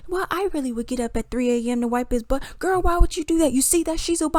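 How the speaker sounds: hammed-up squabbling, jumping between voices; bickering debaters. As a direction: mimic panelists talking over each other. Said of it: "too many people talking at once".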